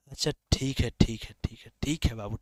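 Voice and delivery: low, soft, hushed okay; placating. Real, not acted. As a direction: placate a student under your breath. Placates a student's request.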